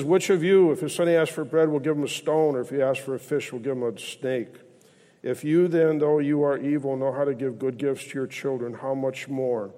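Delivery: forceful opening question, easing as it goes; emphatic scripture quoting. Acted. Preacher quotes Jesus to the congregation, emphatic scripture quoting.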